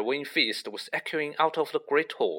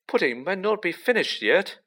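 hopeful; 7 semitones higher than usual. A narrator's reading. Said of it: "said Ron hopefully".

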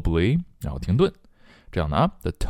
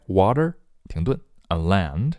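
"water" alone, a stop, then "and land"; separated words. Shown as a demonstration. Teacher showing learners the pause after "water". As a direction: break firmly after "water". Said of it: "都分开".

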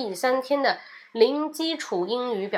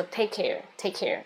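soft goodbye; 2 semitones lower, 6 dB quieter than usual. Shown as a demonstration. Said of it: "每次下班跟同事说再见".

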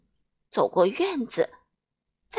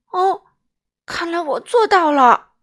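louder, higher, pleased little giggle; giggling king; 7 semitones higher, 9 dB louder than usual. A narrator's reading. King realises he can laugh, giggling. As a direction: chuckle in delight at himself. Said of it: "他咯咯笑着说".

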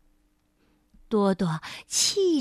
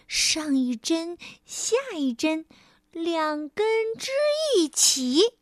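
higher, slow little chant; careful mouse incantation; recited spell; 5 semitones higher than usual. Acted. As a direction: draw out each beat of the charm.

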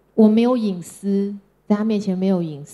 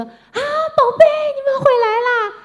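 much higher, sugary doting grandma voice; grandma gushing sweetly; 4 dB louder than usual. Retold or imitated. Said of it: "我妈就是看到这两个孩子就说". (外婆看到孙子，高声甜腻地宠溺招呼)

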